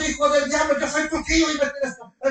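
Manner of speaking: imitating an uncle yelling at his nephew; angry yell. Uncle yelling at Lot, mock angry yell. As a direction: bark it out like a furious uncle. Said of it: "Por eso no gritó".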